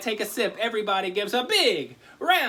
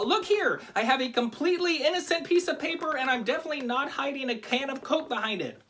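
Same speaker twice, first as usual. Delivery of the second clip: overly suspicious denial; 7 semitones higher than usual. Shown as a demonstration. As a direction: protest far too much, guilty as sin. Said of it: "'Cause that's a little suspicious".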